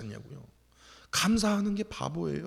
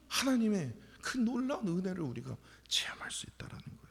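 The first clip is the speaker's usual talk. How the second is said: hushed whisper of awe; 2 semitones higher, 5 dB quieter than usual. Real, not acted. Preacher whispering to the congregation about God's grace. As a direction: let it drop to a whisper.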